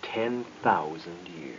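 slow, hushed, breathless; awed whisper. Real, not acted. Reacting to the ancient history, in a slow whisper. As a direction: whisper the figure in awe.

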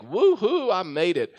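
playful whoop of triumph; celebratory whoop. Retold or imitated. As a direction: imitate an exuberant late arrival. Acting girl bursting onto plane.

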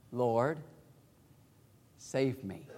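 soft, low plea to the Lord; hushed prayer under the breath; quiet plea. Shown as a demonstration. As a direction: say it softly, almost to yourself. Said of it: "do you suppose he whispered that".

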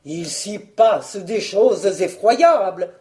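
slow, ominous drawl; slow, mock-dire warning; stalling for time. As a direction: drag it out to gain time. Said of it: "fit pour gagner du temps".

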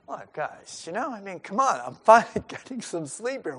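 sleepy Jesus. Retold or imitated.

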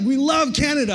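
high, loud eager answer; hyped-up imitated chorus; excited kids. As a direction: imitate boys bursting with enthusiasm. Boys answer with hype.

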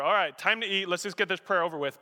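mock rushed grace; lightly imitated going through the motions; hurried, perfunctory. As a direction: toss it off briskly, impatient to be done. Mimics a perfunctory mealtime prayer.

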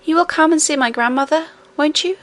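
put-on insistent child. A narrator's reading. Little princess urging her nurse to visit grandmother, insistent. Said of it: "insisted Irene".

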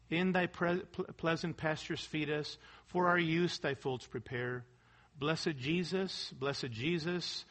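softly recited hymn, low-pitched; tender hymn recitation. Acted.

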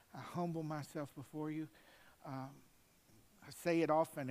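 preacher praying for himself before preaching; prayer. Acted. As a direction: pray humbly before the sermon.

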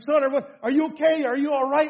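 urgent check on a hurt child, acted; worried father. Father checks on crying son.

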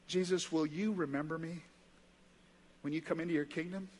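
softly voiced, humble request; gentle plea. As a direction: ask quietly, as a dying man's modest plea. Dying criminal pleads with Jesus.

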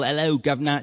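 mock Cockney British greeting; British accent. Host begging guest for a sample, mock British accent. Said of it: "I want a real British, British accent".

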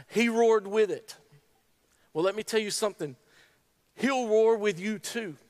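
high, loud, emotional sermon voice; tearful, impassioned preaching. Real, not acted. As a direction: preach through tears with full conviction. Tearful preaching at full force.

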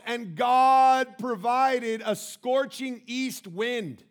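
"God provided" stretched very slowly and loudly; preacher pounding "provided" slowly and loudly; stress on provided. Shown as a demonstration. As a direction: thunder out "God provided a scorching east wind" slowly. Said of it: "I want you to follow this word provide".

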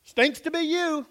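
a callous friend's sneer; mocking dismissal. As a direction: toss it off with contempt. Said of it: "look at him and say".

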